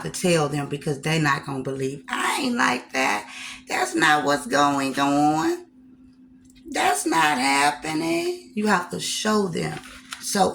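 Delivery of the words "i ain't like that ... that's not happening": defensive denial voice. Retold or imitated. Voicing people who deny it.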